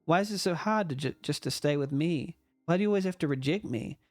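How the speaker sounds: lightly acted plea to stay; a touch of desperate clinging, read in character; pleading game character. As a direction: beg a friend not to leave, understated. Game character begs Rain to stay.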